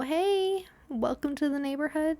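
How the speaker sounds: high, bright welcome; sing-song friendly neighbour; mock cheery greeting.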